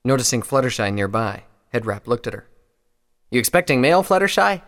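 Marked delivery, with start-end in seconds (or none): 3.3-4.6 friendly raised, rising question; good-natured. A narrator's reading. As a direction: ask loudly and good-naturedly. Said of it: "he asked good-naturedly".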